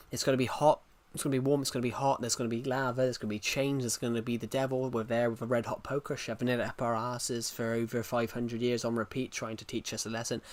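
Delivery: everyday English accent, evenly rattled off. Shown as a demonstration. Streamer showing guys how hell sounds in English, English accent. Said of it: "But in English".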